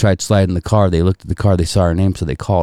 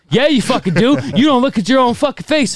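mock teasing relatives; 13 semitones higher, 3 dB louder than usual. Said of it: "And I'm like".

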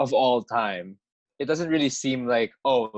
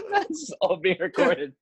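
laughing. Real, not acted. Guest laughing at gestures.

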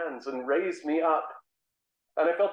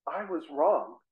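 broken admission; slower than usual. Acted. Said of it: "all I could do was say".

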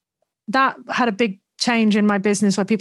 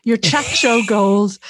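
slow emphatic praise; much slower than usual. Retold or imitated. Retelling chat host's interruption.

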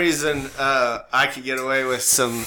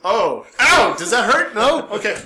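mock concern; 6 semitones higher, 6 dB louder than usual. Acting out prodding the softened head.

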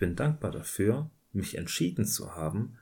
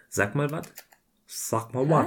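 talking to a cat; 5 semitones higher, 4 dB louder than usual. Real, not acted.

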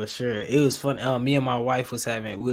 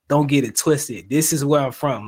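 firm, louder retelling of a teacher; making it clear; 6 dB louder than usual. Retold or imitated. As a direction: lay it down emphatically, no room for doubt. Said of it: "he made it very clear".

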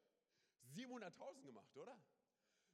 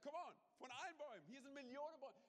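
much higher, louder, big-hearted exclamation; generous God; 9 semitones higher, 6 dB louder than usual. Retold or imitated. God offers all the trees to Adam and Eve, high and generous. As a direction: throw the offer wide open, delighted. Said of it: "Er hat gesagt".

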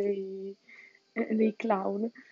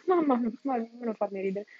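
laughing; 3 semitones higher than usual. Real, not acted. Laughs at the story.

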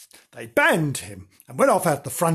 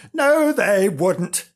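dog voice; 4 semitones higher, 5 dB louder, much slower than usual. Acted. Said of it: "said Nobs".

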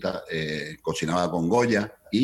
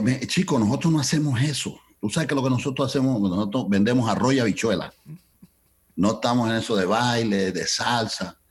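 dismissive Cuban manager, higher voice; Cuban accent; 4 semitones higher than usual. Retold or imitated. The manager refusing salsa sponsorship, Cuban accent. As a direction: wave him off like an old Cuban boss. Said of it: "con el acento cubano".

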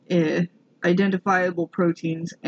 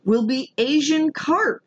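put-on Minnesotan accent; 4 semitones higher than usual. Reading the founder's statement on Asian carp, Minnesotan accent. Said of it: "he's Minnesotan, so I gotta do the accent".

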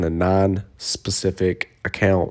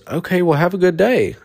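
imitating the stranger; 9 semitones higher than usual. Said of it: "And he goes".

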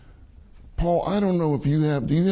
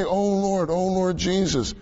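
calling on the Lord; 4 semitones higher than usual. Shown as a demonstration. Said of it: "You can say".

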